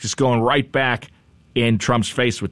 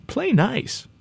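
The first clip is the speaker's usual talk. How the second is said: mock scolding; 12 semitones higher than usual. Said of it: "he's kinda saying".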